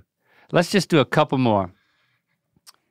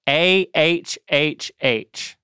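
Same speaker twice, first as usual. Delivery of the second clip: slow ah with tongue out; tongue stuck out; much slower than usual. Shown as a demonstration. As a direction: stretch the ah, tongue out. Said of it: "And just say".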